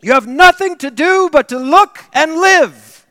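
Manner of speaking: full-voiced high shout; preacher shouting at young Spurgeon. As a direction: shout it at the top of your voice. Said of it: "shouted at the top of his voice".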